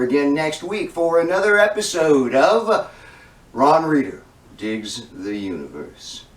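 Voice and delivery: announcer outro, slowing and dropping low on the title; presenter's outro with a weighty, low title; show host sign-off. Acted.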